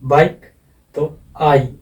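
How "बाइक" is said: बाइक louder, gliding from आ to ई; diphthong demo. Shown as a demonstration. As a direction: slide the vowel in बाइक from आ to ई. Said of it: "B आई के ई".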